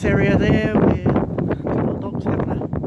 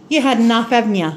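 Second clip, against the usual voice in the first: pet talk; 5 semitones higher, 7 dB louder, faster than usual. Real, not acted. Cooing to the fed-up dog.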